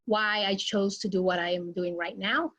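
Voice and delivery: normal talking voice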